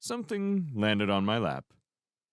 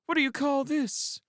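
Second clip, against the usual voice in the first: mock indignation. A narrator's reading. Crow protests with raised glass.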